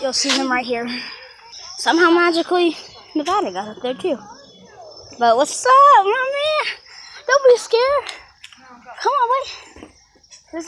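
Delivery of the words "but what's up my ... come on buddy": high-pitched encouraging pet talk; coaxing a dog. Real, not acted. Owner reassuring a scared dog, high-pitched coaxing. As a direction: coax the dog in a raised pitch.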